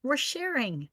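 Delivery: hushed, voiceless confiding; whisper. Acted. Merged creature explains the shared voice, whispering. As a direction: whisper it softly.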